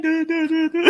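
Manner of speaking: high, stuttering character voice, laughing; stuttering movie character imitation. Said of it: "He was like".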